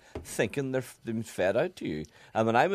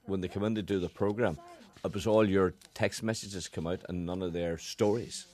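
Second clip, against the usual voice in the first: imitating Ken; 4 semitones lower than usual. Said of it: "pretty good impersonation".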